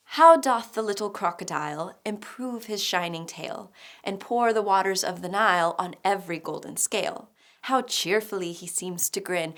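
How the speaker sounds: measured poetry reading; poem recitation. Acted. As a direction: recite it line by line, lingering on line ends.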